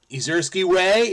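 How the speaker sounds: trying "Izursky Way" out loud like a guess; testing Izursky Way as Pig Latin. Shown as a demonstration. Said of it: "he just gets to be Izursky".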